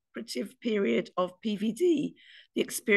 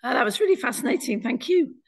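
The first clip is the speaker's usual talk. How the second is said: squeaky voice; 3 semitones higher, 4 dB louder than usual. Real, not acted. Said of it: "sorry for my squeaky voice".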